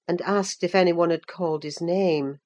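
usual speaking voice

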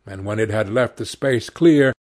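plain reading voice

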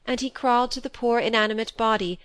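plain reading voice

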